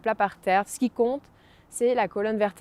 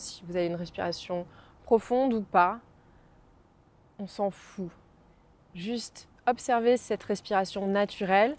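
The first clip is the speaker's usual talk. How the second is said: guided meditation. Acted. Guides breathing exercise. (voix de méditation guidée)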